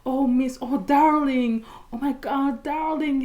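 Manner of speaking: hammed-up fussing passer-by; fussing woman. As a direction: coo over her in mock concern. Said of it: "il y avait une femme, elle voulait pas me lâcher".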